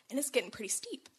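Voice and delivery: whispered, tense narration. A narrator's reading. Telling of the steep climb down, whispered. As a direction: hush it as the slope gets steep.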